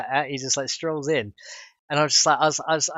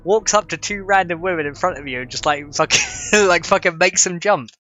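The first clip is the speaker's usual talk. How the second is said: much higher, louder outraged rant; high indignant rant; 5 semitones higher, 5 dB louder than usual. Retold or imitated. Telling chat about the shirtless man: high indignant rant. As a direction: rant in disbelief at him. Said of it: "indignant retelling".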